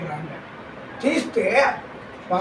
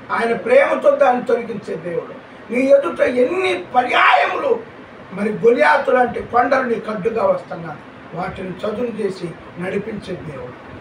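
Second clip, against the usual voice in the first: full-force preaching. Acted. Pastor rousing the congregation about giants, fervent preaching.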